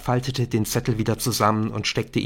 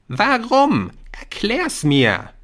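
louder, high-pitched demand; demanding cry; 11 semitones higher, 4 dB louder, slower than usual. A narrator's reading. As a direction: call out, insisting on an answer. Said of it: "rief Jamie". (fordernd gerufen)

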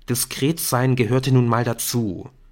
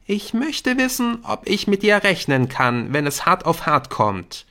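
higher, insistent appeal; earnest schoolboy; 8 semitones higher than usual. Acted. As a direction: demand to know where your friend stands. Jamie tests the friendship. (eindringlich fragender Freund)

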